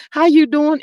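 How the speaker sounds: hint of a celebrity host's lilting greeting; Wendy Williams. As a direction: lightly imitate a TV host's signature greeting. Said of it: "in my Wendy Williams voice".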